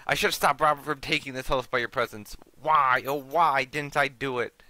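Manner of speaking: lightly acted, self-accusing zealot; ranting grandfather. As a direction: condemn her as your greatest sin. Grandfather rants at mother.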